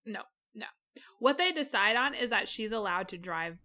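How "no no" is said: a breathy whispered aside. Real, not acted. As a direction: drop to a whisper, no voice. Quiet aside to cohost.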